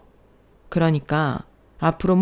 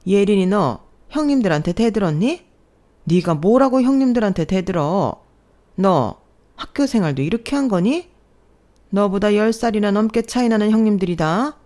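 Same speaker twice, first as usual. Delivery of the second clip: berating mother-in-law; 3 semitones higher than usual. Acted. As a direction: tear into her for talking back. (며느리를 나무라는 시어머니의 화난 목소리)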